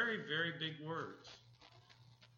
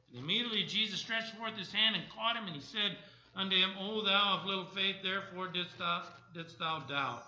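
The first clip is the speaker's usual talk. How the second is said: emphatic Bible reading, easing at the end; scripture reading; 2 semitones higher, 4 dB louder than usual. Acted. Preacher reads Peter's rescue to the congregation, emphatic scripture reading. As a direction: read the verses out firmly, settling on the final question.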